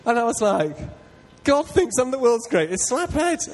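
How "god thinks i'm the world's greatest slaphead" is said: much higher and louder, slow with delight; overjoyed. Retold or imitated. Preacher reliving his joy at God's words, much higher and louder. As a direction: burst out in joyful disbelief.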